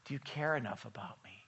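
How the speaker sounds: doubtful plea. Retold or imitated. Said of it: "what they doubted".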